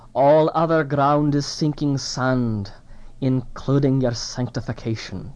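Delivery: fake Scottish brogue, slowed. Quoting Sinclair Ferguson's words at the Ligonier event, in his Scottish brogue. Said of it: "in his Scottish brogue".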